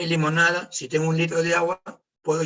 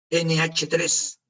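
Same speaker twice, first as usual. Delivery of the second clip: slow dictation; much slower than usual. Shown as a demonstration. Teacher dictating the ammonia formula to students, very slowly. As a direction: spell out each symbol very slowly.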